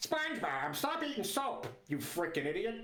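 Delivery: slipping into a cartoon dad character voice. Showing off voices, the speaker tries Squidward but lands on an accidental Peter Griffin voice. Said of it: "Why is it Peter".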